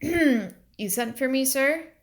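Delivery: slow mocking imitation of a timid girl; mimicking Liddy. A narrator's reading. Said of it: "Her exact words".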